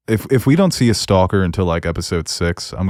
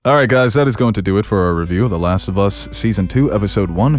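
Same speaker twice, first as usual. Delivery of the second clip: lifted, lilting host outro; announcer-like closing to the listeners; podcast sign-off. Real, not acted. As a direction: wrap up the show, stretching the episode title. Host reads the show's sign-off.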